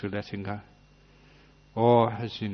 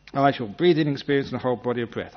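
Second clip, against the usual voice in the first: pushy, louder self-command to breathe in; control freak; 2 semitones higher, 3 dB louder than usual. Retold or imitated. Meditator nagging himself, a pushy control-freak command. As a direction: nag yourself like an impatient boss. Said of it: "Control freak means that you keep interrupting".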